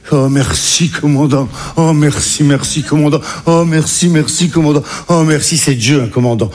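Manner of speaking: hammed-up thanks, repeated over and over; effusive mock-grateful litany; overwhelmed gratitude. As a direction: pour out acted relief to a saviour. Overwhelmed thanks to the captain, acted.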